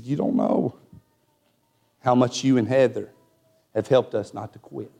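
low, soft, halting imitation of a grateful friend; retold breaking down. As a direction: act out his heartfelt confession, pausing between phrases. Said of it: "he just really broke".

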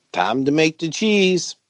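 slow whispered catchphrase; hushed and slow, a mock ad line; whispered slogan. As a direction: breathe "time to make the cheese" like a secret tagline. Cheese slogan joke, whispered.

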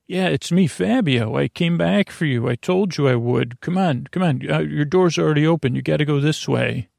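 lightly voiced hurried rescuer; quick eager rescuer voice; non-regular voice. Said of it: "I'm talking in my non-regular voice".

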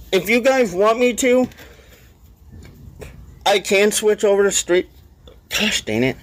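talking through hiccups; hiccuping mid-sentence. Real, not acted. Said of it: "Sorry, I got hiccups going".

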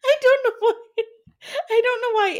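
hammed-up high crying wail; mock-sob like a cat hacking up a hairball; cat coughing up hairball. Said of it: "found the need to imitate that ... like a cat coughing up a hairball".

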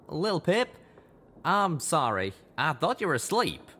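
sorry for waking her; apologetic Calamity. Acted. Calamity apologizing to Lil Pip.

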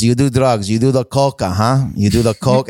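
put-on thick-accented, broken-English dad. Dad confronting his son about drugs, thick foreign accent. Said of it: "He's like, thick accent".

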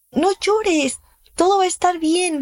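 mock soothing. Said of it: "Cálmate y no llores".

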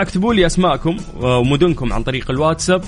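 normal talking voice

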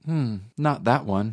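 mock snippy put-down with a drawn-out hmm; sassy Siri. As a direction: sneer it like a rude assistant. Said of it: "she would go".

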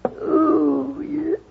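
long high yawning "ooh"; acted yawn. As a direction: let out a drawn-out, high-pitched yawn. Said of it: "I don't know why I'm yawning".

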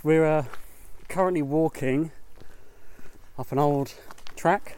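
breathy, winded from the climb; out of breath. Real, not acted. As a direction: speak while catching your breath. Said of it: "I'm so sorry I'm out of breath".

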